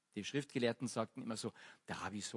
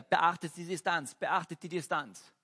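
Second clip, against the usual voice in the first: loud, higher call of "beachtet die Distanz"; 5 semitones higher, 5 dB louder than usual. Retold or imitated. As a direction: shout "beachtet die Distanz" across the crowd. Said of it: "hat die ganze Zeit gerufen".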